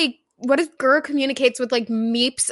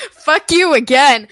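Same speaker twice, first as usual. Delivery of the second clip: laughing; 4 semitones higher, 5 dB louder than usual. Real, not acted. Laughing while insulting friend.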